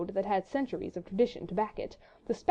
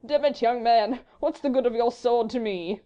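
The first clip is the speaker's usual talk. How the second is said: good-humoured fop; 3 semitones higher, 5 dB louder than usual. A narrator's reading. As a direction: dismiss him with easy, foppish good humour. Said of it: "he muttered good-humouredly".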